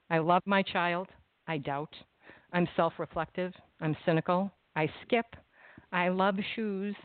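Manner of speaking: measured recitation of a list of lines; poetry reading; reading a poem aloud. Acted. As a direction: read each line as its own small statement. S0 reads Marjorie's page aloud.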